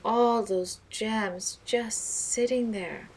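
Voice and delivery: slow, dreamy and wistful. Acted. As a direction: linger on it as if picturing the gems. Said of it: "said wistfully".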